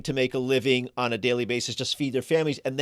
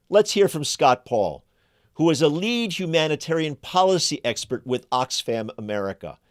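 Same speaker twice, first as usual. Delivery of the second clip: emphatic presenter read, key words punched; deliberate phrasing with weighty pauses; scripted commentary read; 3 dB louder than usual. Acted. Host lays out Yemen's war to listeners, scripted commentary read. Scripted opening monologue and guest introduction.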